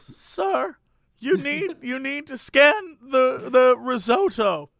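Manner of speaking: put-on slow, high lady with a slight German accent. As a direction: spell it out patiently in a light imitated German accent. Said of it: "sort of has a German accent".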